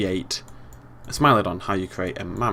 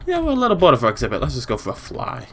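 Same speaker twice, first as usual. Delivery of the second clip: higher, louder, quick creature chatter; voicing bored pteranodons; 4 semitones higher, 4 dB louder than usual. Pteranodons deciding to leave their exhibit, in a higher put-on voice. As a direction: speak up for restless flying reptiles, higher. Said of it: "I'm a little nervous that they'll just decide to".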